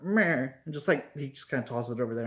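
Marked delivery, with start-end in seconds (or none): 0.0-0.5 imitated "meh" noise. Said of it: "is like".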